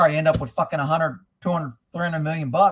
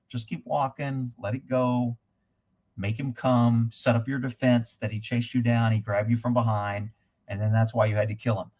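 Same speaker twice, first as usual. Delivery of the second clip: calm inner voice; 5 semitones lower than usual. Retold or imitated. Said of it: "I was being in my calm".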